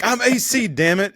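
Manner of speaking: loud mock catchphrase; Tim Meadows as A C. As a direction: ham up the sketch line. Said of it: "he'd be like".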